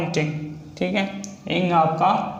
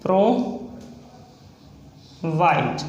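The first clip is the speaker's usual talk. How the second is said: drawn out slowly; much slower than usual. Shown as a demonstration. Shorthand teacher writing प्रोवाइड for students, said very slowly. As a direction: stretch प्रोवाइड out very slowly, syllable by syllable. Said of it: "next है प्रोवाइड".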